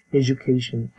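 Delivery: "এডুকেশন" as "e-ju-kay-shn"; teacher's "e-joo-KAY-shn" for "এডুকেশন"; correct IPA pronunciation. Shown as a demonstration. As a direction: repeat "এডুকেশন" as a model, with j for d. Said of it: "এরকম".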